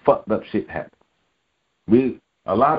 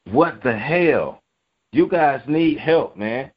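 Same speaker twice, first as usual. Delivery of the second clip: exasperated outburst; 5 semitones higher, slower than usual. Real, not acted. Angry rant about accused rapists.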